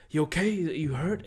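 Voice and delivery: acted concern, lifted rising questions; concerned check-in. Joel checks on Ellie, acted concern. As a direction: imitate someone checking on a friend, voice rising. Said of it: "Joel's like, to Ellie, goes".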